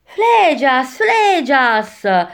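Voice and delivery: high call of the name; sharp retort. A narrator's reading. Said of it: "ribatté Virgilio".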